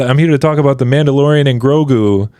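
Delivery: upbeat actor impression, accent dropped; Pedro Pascal. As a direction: slip back to regular American delivery. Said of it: "he comes into the accent for, uh, just to".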